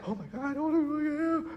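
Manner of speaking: high, hushed fretting; retold panic. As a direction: act out a small, helpless panic. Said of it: "I'm kind of panicking".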